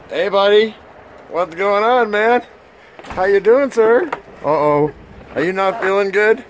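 high and loud, gushing at the dog; excited pet voice. Real, not acted. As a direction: greet the puppy like a long-lost friend.

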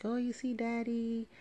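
put-on high, sing-song baby talk to the cat. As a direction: coo it like talking to a pet. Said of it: "I'm like".

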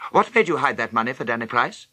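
put-on a sudden angry bark at the boy; roared question. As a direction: turn on him like a whiplash. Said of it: "His voice roared through my head".

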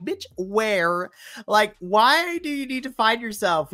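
loud, high-pitched exasperated challenge; incredulous retort. Retold or imitated. Podcaster answering Josh Briggs's promo about finding himself, incredulous. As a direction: throw the question back in disbelief.

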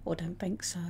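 viewer. Retold or imitated. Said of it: "they hear my voice and go".

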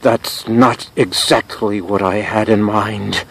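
slow, measured dismay; dismayed understatement. Acted. Drenched host to producer after asking for water, dismayed understatement. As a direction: state your displeasure with slow restraint.

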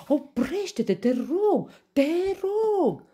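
very high, loud plea; desperate begging. A narrator's reading. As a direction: beg for mercy, squealing. Lion begs for mercy. (implorare disperată, ascuțită)

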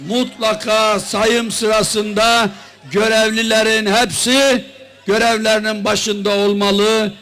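loud, forceful campaign speech; rally speech. Real, not acted. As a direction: rouse the crowd from the podium. Opening of political rally speech.

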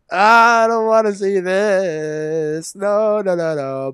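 drawn-out whine, dropping at the end; dismayed wail. Real, not acted. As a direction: protest slowly, dreading the sight. Dreading the birth scene.

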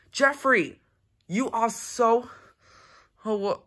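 mock-scold the barking dog by name. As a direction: pet owner calling out to a noisy dog, a touch cross.

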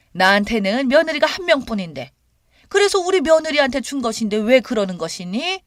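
stern mother-in-law answering back; indignant retort. A narrator's reading. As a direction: challenge the daughter-in-law head-on. Narrator voices defiant mother-in-law retort.

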